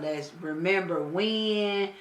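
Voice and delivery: slow mock sentimental line through a shout of laughter; mock nostalgia, laughing. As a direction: laugh while mocking a heart-to-heart. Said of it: "be talking about".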